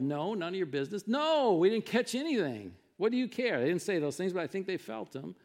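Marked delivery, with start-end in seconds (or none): 0.0-3.6 mock-annoyed retort, rising higher and louder; irritated yell. Fishermen brush off stranger on shore, acted irritated yell. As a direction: imitate testy fishermen yelling back. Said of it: "I think they probably yelled".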